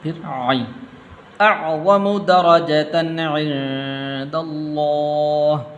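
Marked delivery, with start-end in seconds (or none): 1.4-5.6 slow melodic Quranic chant; Quran recitation. Shown as a demonstration. Teacher reciting the verse to students, measured chant. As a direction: recite the verse slowly with tajweed.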